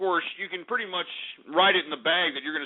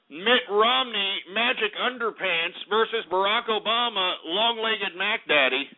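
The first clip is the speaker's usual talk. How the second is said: mock announcer intro; 2 semitones higher than usual.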